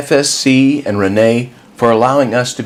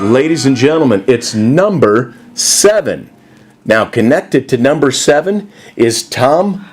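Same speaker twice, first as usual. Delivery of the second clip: booming prize announcer. Acted. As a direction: announce it like a game show host. Auctioneer announces the winning number.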